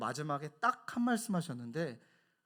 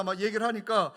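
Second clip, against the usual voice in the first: ordinary talk, nothing marked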